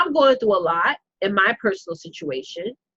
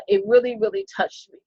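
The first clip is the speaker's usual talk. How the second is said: moved. Real, not acted. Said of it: "I'm sorry, y'all".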